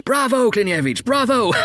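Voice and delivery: high, rising bravos; cheering crowd. A narrator's reading. The dead applauding Klinevich's jibe, high cheering. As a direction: cheer with mounting glee. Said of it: "The voices roared".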